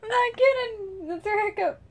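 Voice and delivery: laughing while talking. Real, not acted. Speaking through laughter.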